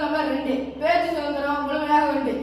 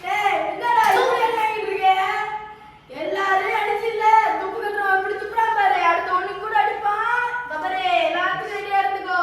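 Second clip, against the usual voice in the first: raised-pitch heckling from the side; urgent calling out; 5 semitones higher than usual. Acted. Warning a player to be ready for the next hit, urgent. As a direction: call out to him, pitched up and insistent. Urging player on during the contest.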